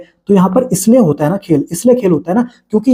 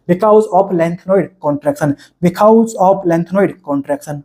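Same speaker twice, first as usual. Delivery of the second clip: very slow, stretched, each word weighed; slow dictation; much slower than usual. Shown as a demonstration. Teacher repeating the exam reason to students, very slow. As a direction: hammer the reason home slowly so it sticks.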